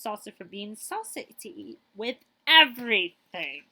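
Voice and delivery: lively storybook reading; reading to children. Acted. Librarian reading a picture book to children, lively. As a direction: read it like story time for kids.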